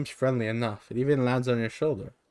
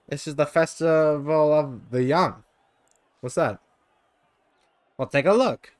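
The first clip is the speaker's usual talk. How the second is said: creature voice; 4 semitones higher, 5 dB louder than usual. Acted. Jan explains the festival.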